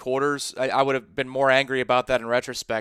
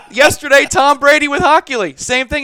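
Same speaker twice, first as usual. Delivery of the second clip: laughing; 11 semitones higher, 8 dB louder than usual. Real, not acted.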